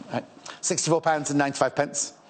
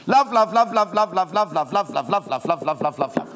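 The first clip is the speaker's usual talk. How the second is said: loud rapid-fire repeats, easing off gradually; gushing love; 3 dB louder than usual. Real, not acted. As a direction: burst into an adoring chant. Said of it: "Can you tell I love this?".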